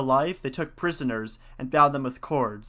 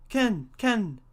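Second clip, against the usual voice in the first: pheasant call; 8 semitones higher than usual. Acted. Pheasant's cry in story.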